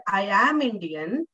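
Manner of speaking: slow, with a full, drawn-out "am"; stress on AM. Shown as a demonstration. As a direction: give "am" its whole strong form. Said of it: "I am stressing on the word am".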